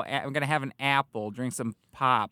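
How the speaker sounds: put-on nasal Michigan accent; lightly done Michigan accent. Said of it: "nasally sort of thing".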